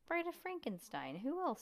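high, proud character voice. Acted. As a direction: pitch up for a spooky bride. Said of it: "asked Stink".

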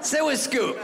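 high, sing-song coaxing; coaxing dog voice. Retold or imitated. The dog coaxing the comedian to sit, high and cooing. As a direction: coax like a needy pet. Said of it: "And he's like".

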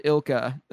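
ilka, run together like a name; pronounced as one word. Shown as a demonstration. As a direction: say ilka as a two-syllable word, IL-kuh. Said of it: "they pronounced it ilka before".

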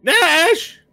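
shrill, high-pitched scream; Walnut. Acted. Waking everyone with a name, shrill screaming. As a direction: scream the name out long and loud. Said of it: "the shrill sound of Walnut screaming".

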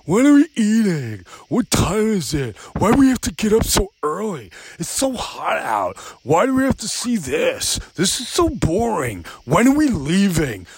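mock the kids nagging on vacation; whiny kids. Kids pestering parents on the trip, whiny mimicry.

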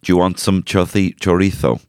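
chorizo said with a lisp; mock Castilian lisp on chorizo; lisped Spanish. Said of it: "adds the lisp to it".

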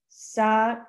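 Sakaga in separate, emphatic syllables with a hard G; true pronunciation. Shown as a demonstration. Host explaining the word for bird, Sakaga sounded out with hard G. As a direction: break Sakaga into sah, kah, GAH. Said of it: "based on the true, like, translation".

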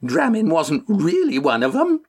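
put-on high, quavering old woman's voice. A narrator's reading. Old woman interrupting Mufrid, high quaver. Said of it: "Pegeen quavered".

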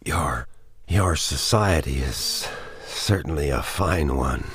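a touch of strained breath, weak and halting; a hurt man getting the words out with effort; gasped. Acted. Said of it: "he gasped".

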